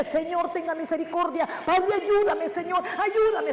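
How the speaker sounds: rising, pleading cry to the Lord; a touch of retold tearful prayer. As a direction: beg for help, voice lifting. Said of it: "comenzaba a llorar y decirle".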